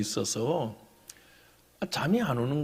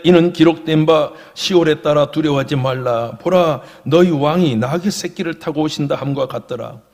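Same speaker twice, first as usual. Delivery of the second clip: loud, measured Bible recitation; scripture reading; 10 dB louder than usual. Real, not acted. Pastor reads John's gospel to the congregation, loud recitation. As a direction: read the verse out firmly.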